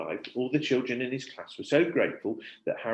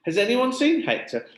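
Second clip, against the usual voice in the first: teacher asking the class; 12 semitones higher, 7 dB louder than usual. Acted.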